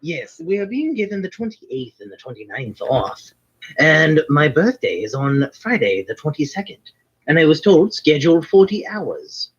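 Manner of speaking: put-on Irish lilt as a wizard character; hammed-up Irish brogue of a fantasy character; fake Irish accent. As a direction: stay in a stage Irish accent throughout. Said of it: "the Irish accent, yes, was entirely fake".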